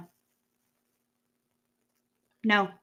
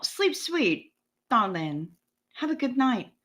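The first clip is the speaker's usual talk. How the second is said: softer, fond sendoff; tender goodnight; 5 dB quieter than usual. Real, not acted. Streamer bidding a leaving viewer goodnight, soft and fond. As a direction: tuck them in with your voice.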